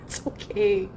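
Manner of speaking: slow whispered it's okay; whispered comfort. Real, not acted. Owner whispering slow comfort to her cat.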